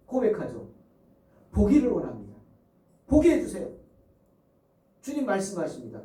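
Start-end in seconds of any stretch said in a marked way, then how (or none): 1.5-3.7 raised, louder plea to see; pleading cry. Acted. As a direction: beg to be healed. Blind men plead. (간절하게 크게 외치는 소경의 부르짖음)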